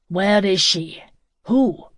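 loud, angry demanding. Acted. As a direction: demand it with mounting anger. Furious man demands an address.

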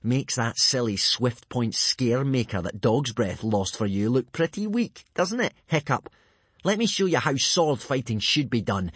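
lightly voiced boastful boy; a touch of smug swagger; taunting bully. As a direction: needle your rival. Plays Snotlout taunting Hiccup.

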